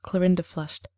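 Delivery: plain reading voice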